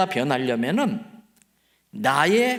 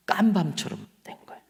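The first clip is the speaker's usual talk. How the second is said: unvoiced whisper on 깜밤처럼, falling; whispered punchline. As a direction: breathe 깜밤처럼 as a secret. Punchline said twice.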